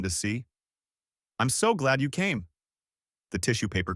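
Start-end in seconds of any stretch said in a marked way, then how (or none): 1.4-2.5 high, sugary sing-song. Acted. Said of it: "she said in that sing-song voice".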